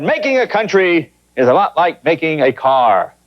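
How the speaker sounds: lightly voiced president, slow and deliberate; President Clinton. Joking host quotes the president's factory speech, lightly slowed presidential delivery. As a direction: spell out a simple comparison slowly. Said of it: "he said".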